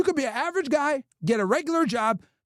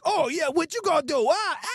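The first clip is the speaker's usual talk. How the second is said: mock taunting woman; 2 semitones higher than usual. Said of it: "Bitches are out here like".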